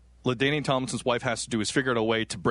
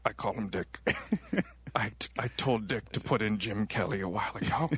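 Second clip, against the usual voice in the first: lightly voiced old man; 4 semitones lower, 6 dB quieter than usual. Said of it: "my old man impression".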